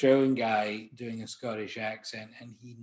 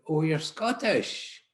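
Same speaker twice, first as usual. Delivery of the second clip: slow, higher, louder amused exclamation; imitating a celebrity's reaction; 6 semitones higher, 6 dB louder, slower than usual. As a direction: stretch it out in a put-on voice, delighted. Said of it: "he said".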